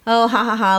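fake laugh. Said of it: "I started hysterically laughing".

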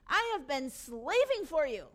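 slow, loud, deliberate grievance; controlled resentment; indignant complaint. Acted. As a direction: press each word slowly and firmly. Older brother's complaint, measured take.

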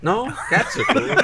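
mocking Cody. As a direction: parrot his answer back, laughing. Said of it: "mimics Cody's answer".

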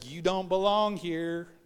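slow, dismissive verdict; cold rejection. Retold or imitated. Church member telling a smoker to leave, slow disdain.

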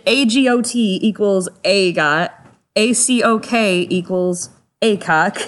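slow spelling, then "A got" and "A cock" as words; letters slowly, then the acronym as a word; sounded-out acronyms. Shown as a demonstration. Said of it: "This is all sounded out".

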